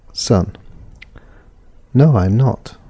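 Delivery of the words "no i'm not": slight fall on "not" at the end. Shown as a demonstration. Teacher demonstrating a statement to learners, gentle fall on "not". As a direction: let "not" drop a little to close the statement. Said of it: "Slight falling sound on not".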